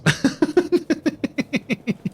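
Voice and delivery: a high laugh trailing down; embarrassed laughter after admitting a weakness. Real, not acted. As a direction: laugh at yourself. Laughs at own accent.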